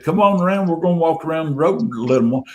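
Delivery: mild imitation of calling to a friend; retold holler. Calling Rob round the road to join the group, mild holler. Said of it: "I holler at him".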